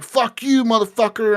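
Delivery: high-pitched mock outburst; acted angry cursing. Retold cop tearing apart a smuggler's car, mock angry. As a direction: curse the suspect in a worked-up imitation.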